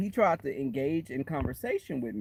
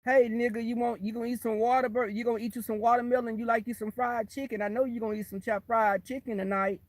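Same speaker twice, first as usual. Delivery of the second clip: fast, higher-pitched mock offender; hurried, raised-pitch mocking quote; imagined white person; 5 semitones higher than usual. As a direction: lightly put on an oblivious white person, rattling on. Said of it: "what if I was a white person".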